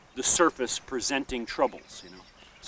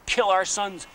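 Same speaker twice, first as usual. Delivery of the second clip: retold scream; 5 semitones higher than usual. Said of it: "they're screaming at these men saying".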